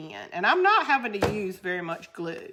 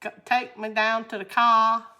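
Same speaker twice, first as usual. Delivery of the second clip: put-on Cape Cod accent; 2 semitones higher, 4 dB louder than usual. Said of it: "in Cape Cod".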